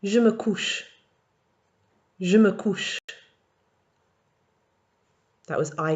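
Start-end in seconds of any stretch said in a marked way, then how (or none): 0.0-0.8 Je me couche read clearly for the class; model French phrase. Shown as a demonstration. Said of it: "Numéro un". 2.2-3.0 Je me couche read clearly for the class; model French phrase. Shown as a demonstration. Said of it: "Numéro un".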